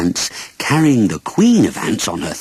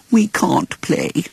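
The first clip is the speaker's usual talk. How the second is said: ants replying; 9 semitones higher, slower than usual. A narrator's reading. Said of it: "they replied".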